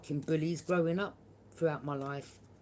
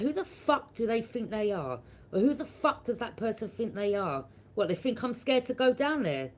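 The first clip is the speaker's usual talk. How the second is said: fuming retort; 4 semitones higher, 4 dB louder than usual. Retold or imitated. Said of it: "I was fuming".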